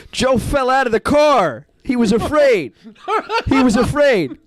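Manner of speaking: can hardly get it out for laughing. Real, not acted. Billy laughing while telling.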